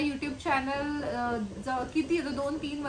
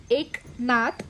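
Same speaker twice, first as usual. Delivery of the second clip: poem recital. Acted. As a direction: recite the granddaughter's questions gently. Reads poem to viewers.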